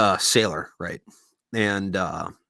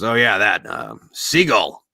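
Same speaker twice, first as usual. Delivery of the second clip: embarrassed; 6 dB louder, much slower than usual. Acted. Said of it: "he kinda looks embarrassed".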